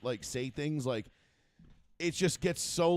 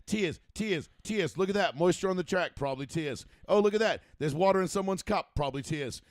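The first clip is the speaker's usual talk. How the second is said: higher, punchy mock commentary; mocking commentators; 3 semitones higher, 4 dB louder than usual. Wife mocking announcers who see tears everywhere, mock commentary. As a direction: imitate a commentator spotting every drop, lightly sarcastic. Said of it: "She's like".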